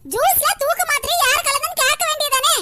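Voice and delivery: grandma snaps at the staring doctor; old granny scolding. Acted. Grandmother just woken scolds the doctor, in a sharp old woman's scold.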